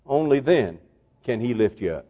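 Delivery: soft, weighty pulpit hush; hushed conclusion. Real, not acted. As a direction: let the voice fall away quietly. Sudden hush after climax.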